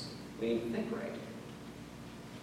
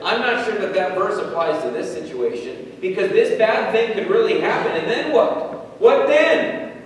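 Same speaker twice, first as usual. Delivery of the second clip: rising, louder and higher into a frantic what then; anxious worry building to panic; 7 semitones higher, 7 dB louder than usual. Retold or imitated. Preacher voicing worry's spiraling panic, growing loud and high. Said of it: "But worry says".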